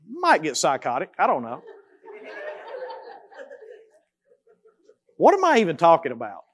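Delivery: amused, muttered aside with a laugh; chuckling at himself. Real, not acted. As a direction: laugh off your own tangent.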